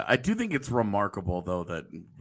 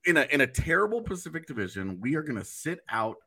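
defiant team voice; 2 semitones higher than usual. Retold or imitated. Team's imagined defiant statement.

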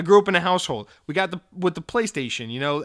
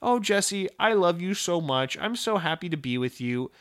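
lightly voiced adoring girlfriend; loving girlfriend; 2 semitones higher than usual. Girlfriend tells Jesse she loves him, lightly imitated tenderness. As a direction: gush gently, easing down as it goes. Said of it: "my girlfriend coming up to me".

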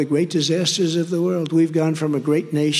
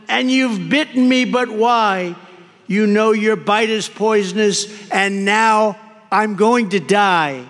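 high, louder anguished cry; bitten woman crying out; 5 semitones higher, 4 dB louder, slower than usual. Acted. The bitten woman cries out to the snake, higher and louder in anguish. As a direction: cry out in shocked betrayal. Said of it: "cried the woman".

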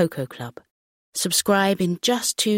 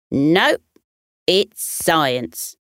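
stubborn retort; much slower than usual. Acted. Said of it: "folded his arms stubbornly".

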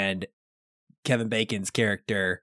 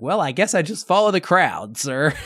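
awkward admission; 4 semitones higher, 5 dB louder than usual. Retold or imitated. Marine's awkward answer.

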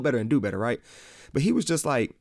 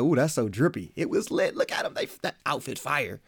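put-on young slang speaker; 3 semitones higher than usual. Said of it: "this new generation might say something like".

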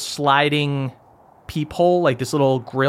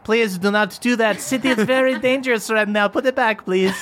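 high pleading dwarf voice; 7 semitones higher than usual. Acted.

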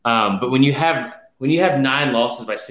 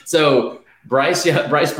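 fired up; 3 semitones higher, much slower than usual. Real, not acted. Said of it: "So fired up about the Bama".

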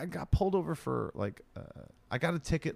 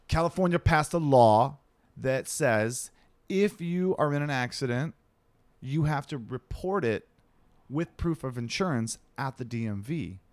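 slow, louder, curt clerk reading the rule; less nice clerk; 2 semitones higher, 3 dB louder than usual. Retold or imitated. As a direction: lay down the law slowly and curtly. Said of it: "she was not as nice as I'm making her sound".

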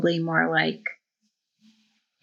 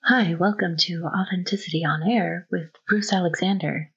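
radio voice. Pretend. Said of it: "do your radio voice real quick".

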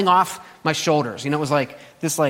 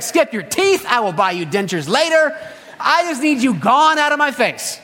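exasperated tired parent; 4 semitones higher than usual. Retold or imitated. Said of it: "You're like".

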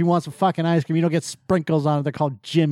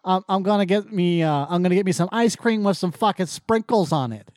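mock Massachusetts accent; bad Massachusetts accent; 2 semitones higher than usual. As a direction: play a bad actor faking Massachusetts. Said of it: "bad actors that don't know how to do".

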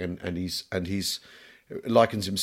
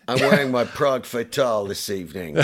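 put-on smooth cologne-advert voice, laughing; hammed-up perfume commercial line; mock aftershave ad. Jokes the title sounds like aftershave.

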